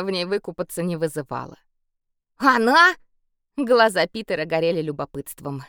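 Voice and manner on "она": curious. A narrator's reading. Boy asks eagerly.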